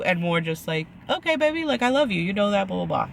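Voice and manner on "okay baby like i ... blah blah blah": sweet reassurance. Retold or imitated. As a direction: coo it like a gentle fiancé. Voicing how Zach should reassure.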